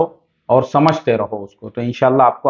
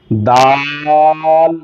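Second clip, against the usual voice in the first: دال stretched very slowly; drawn out; much slower than usual. Shown as a demonstration. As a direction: hold دال long. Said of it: "کھینچ کے پڑھ رہا ہوں". (دال کو خوب کھینچ کر پڑھنا)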